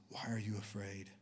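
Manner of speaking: soft, hushed, non-accusing question; gentle question. Retold or imitated. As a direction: ask it softly, without accusing.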